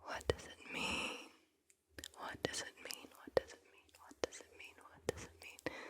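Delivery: very faint whispered question, repeated over and over; hushed echoing whisper. Real, not acted. Guide teasing the answer's meaning, in faint repeated whispers. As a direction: whisper it far under your breath, like echoes.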